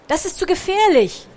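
loud, high alarmed warning; shouted warning. A narrator's reading. Pikandu warning Bertram away from danger, alarmed shout. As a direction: warn with full urgency. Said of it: "rief Pikandu".

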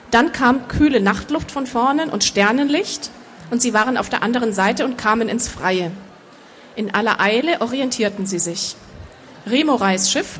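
measured audiobook narration; story narration. A narrator's reading. Author reading her fantasy novel to an audience, measured narration. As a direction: read the story out evenly and composed.

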